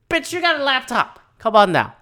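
very high-pitched exasperated squeal; high-pitched mock outrage; incredulous scolding. Scolds the character in disbelief.

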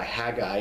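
"Haggai" with a single G sound; teacher's model "Haggai", one G; double G as one. Shown as a demonstration. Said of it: "pretend there's one G there".

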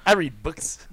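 laughing silly voice. Acted. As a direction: laugh it out in a goofy voice. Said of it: "repeating own line in a voice".

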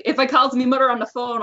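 light Newfoundland accent; a hint of Newfoundland dialect. Shown as a demonstration. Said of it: "give us a little Newfoundland accent".

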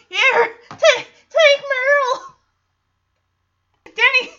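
loud, high, squeezed out through laughter; helpless laughter. Real, not acted. Recapper acting Roy handing over Meryl, cracking up. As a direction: crack up while trying to get the quote out.

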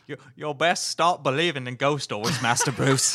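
put-on rough British butler accent; attempted British accent. Podcaster retrying the ghost-story line for friends, British butler accent. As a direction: try a British manservant's accent, amused. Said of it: "accent you were trying".

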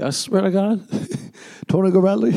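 high, fast, laughing insistence; laughing drunk swear. Retold or imitated. Drunk boyfriend swearing to his ex, laughing. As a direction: swear it through giggles. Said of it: "I was like".

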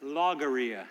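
logorrhea said with a falling punchline tune; word comparison. Shown as a demonstration. Pastor comparing two words for a joke, falling punchline. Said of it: "Sounds kind of the same".

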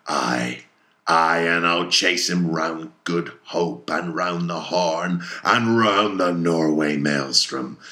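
slow, emphatic vow with loud surges; shouted vow. Acted. Ahab vows to chase the whale round the seas, shouting. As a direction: swear it out forcefully, stretching the words. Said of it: "he shouted out".

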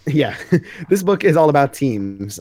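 slow, amused giggling restart; laughing. Real, not acted.

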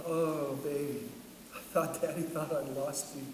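tearful relief. Retold or imitated. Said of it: "crying, crying".

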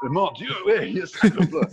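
high, hammed-up French accent; French teacher. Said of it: "the look of my French teacher".

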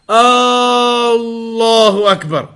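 Allahu drawn out slow on the first A; long first A, wrong. Shown as a demonstration. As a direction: stretch the opening A of Allahu into a long tone. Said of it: "That's incorrect".

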